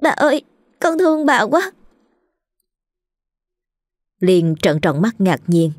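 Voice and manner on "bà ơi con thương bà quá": put-on high, tearful servant girl's voice; stammering through tears. A narrator's reading. Maid clutching the silver, thanking her mistress through tears. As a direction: stammer it out high and weepy like a grateful child. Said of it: "lắp bắp nói".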